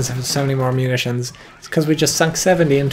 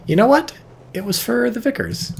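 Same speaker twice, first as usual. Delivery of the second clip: excited; 12 semitones higher than usual. Real, not acted. Caster realises smoke purpose.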